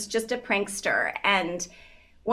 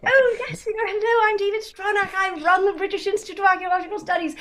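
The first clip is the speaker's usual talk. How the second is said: higher, prim and very proper British gent; a dignified British scholar, lightly pitched up; proper British father; 8 semitones higher, faster than usual. Retold or imitated. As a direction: play the stiff, polite British academic introducing himself. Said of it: "my very proper British father".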